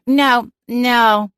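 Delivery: a cat playing a languid real estate agent; airy, sedated realtor voice. A narrator's reading. Celine fakes an airy realtor voice to the homeowner on speakerphone. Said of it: "I'll put on my real estate voice".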